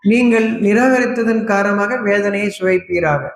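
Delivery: slow, measured formal Tamil recitation; scripture recitation. Acted. Preacher quoting scripture on worship to the congregation, slow formal recitation. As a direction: recite the verse deliberately, drawing out the phrases.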